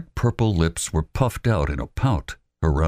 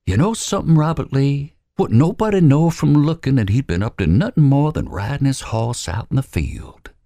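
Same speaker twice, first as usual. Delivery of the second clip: much higher and louder, marvelling; Albert's voice; 11 semitones higher, 6 dB louder than usual. Acted. Albert to Robert Lee, bitterly amazed. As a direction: make him sound amazed.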